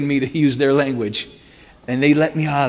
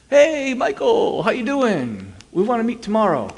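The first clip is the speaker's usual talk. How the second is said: mock the sweet-talking mobster; fake nice; 9 semitones higher than usual. Mimicking the gangsters' sudden sugary phone call. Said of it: "they were so nice".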